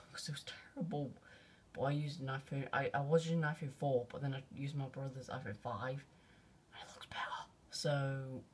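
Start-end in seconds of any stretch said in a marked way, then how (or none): 0.0-1.1 laughing whisper. Real, not acted. Laughing aside about old phone. 6.7-7.5 whispering. Real, not acted. Quiet aside.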